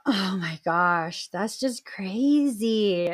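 slow whisper, appalled; whispered disbelief. Real, not acted. Host appalled by abuse story, slow whisper.

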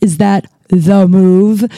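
slow, stretched mock American accent. Owen teasing whenever something happens, mock American accent. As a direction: imitate someone putting on American, drawing it out. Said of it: "like to do the American accent".

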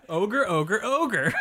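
mock sitcom catchphrase. Shown as a demonstration. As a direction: sell it like a cheesy TV catchphrase. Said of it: "as the catchphrase for the sitcom".

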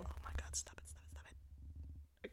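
hushed, stifling laughter; whispered giggle. Real, not acted. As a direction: whisper through held-in laughs. Suppressing laughter to avoid crackling.

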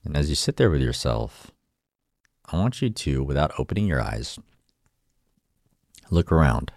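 calm guided meditation voice. Acted. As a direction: guide them inward, gently. Leads a meditation.

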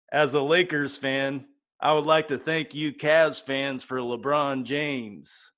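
slow, drawn-out Jack Nicholson impression. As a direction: drawl it slowly like Jack Nicholson. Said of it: "my first one, Jack Nicholson".

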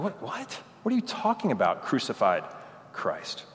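as if the phrase made no sense; incredulous. Retold or imitated. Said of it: "It's like".

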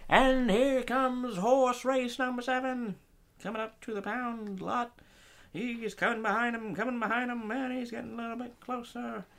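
horse race commentary; announcer voice. Pretend. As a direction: call the race like a track announcer. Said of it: "you had that announcer voice".

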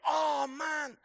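a panicked dad shouting for help; a father bursting in to beg the crowd to find his missing son; pleading shout. Pretend. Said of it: "he would start shouting and say".

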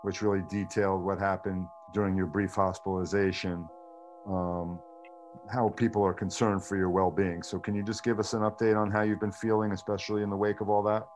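thin, tinny video-call sound; tinny Zoom audio. Real, not acted. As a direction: voice coming through a laptop Zoom call. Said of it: "apologize in advance for the tinny sound of my voice".

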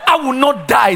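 defiant refusal. Retold or imitated. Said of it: "Africans will be like".

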